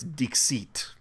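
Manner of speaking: "Dixit" said deek-SEET; preferred pronunciation. Shown as a demonstration. Host correcting co-host, "Dixit" as deek-SEET. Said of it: "pretty sure it's".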